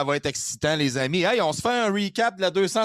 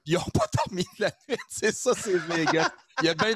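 laughing; faster than usual. Real, not acted. Laughing at the all-nighters.

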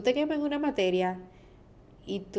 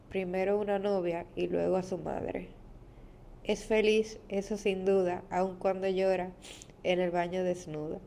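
poem reading. Acted. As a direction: read it gently, line by line. Reads her own poem aloud. (lectura de poema, suave y pausada)

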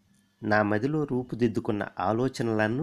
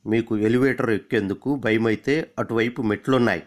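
lightly changed, louder stranger's voice; disguised voice; 4 dB louder than usual. Pretend. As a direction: pose as a passing stranger. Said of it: "గొంతు మార్చి".

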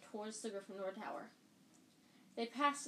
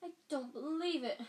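wail; 5 semitones higher, 3 dB louder than usual. Acted. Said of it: "Hermione wailed".

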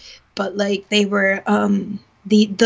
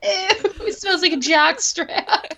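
disgusted ew; 11 semitones higher, slower than usual. Real, not acted. Disgusted joking about coworker smell.

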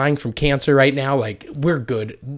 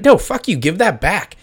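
higher and louder, a mock indignant fiancee; snatch it back like a startled fiancee; mock fiancee protest; 7 semitones higher, 6 dB louder than usual. Fiancee protesting the ring taken off her finger. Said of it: "she's like".

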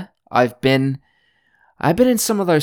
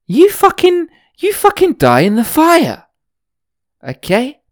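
much higher, louder hammed-up rant; ranting at the hiker from years ago, mock rage; mock furious yell; 13 semitones higher, 4 dB louder than usual. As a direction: scream it at him like a cartoon villain. Yelling at the old hiker.

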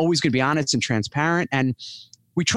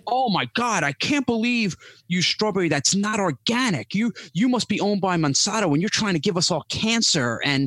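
a hint of a shrill outraged commenter, higher; mocking online critic; 4 semitones higher than usual. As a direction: mocks an angry commenter, voice raised in pitch. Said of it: "you would think I'm a freaking serial killer".

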